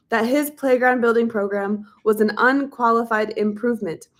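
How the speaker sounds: measured audiobook reading voice; book narration. A narrator's reading. Reads a history book aloud.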